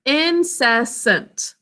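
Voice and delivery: "Incessant" very slowly in three separate syllables. Shown as a demonstration. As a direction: break "Incessant" into in, cess, ant for the class. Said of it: "Three syllables".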